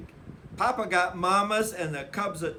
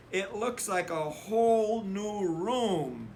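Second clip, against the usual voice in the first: put-on lightly higher child voice; admiring sister; 4 semitones higher than usual. A narrator's reading. Sister admiring the new room, lightly voiced. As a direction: marvel at the clean room.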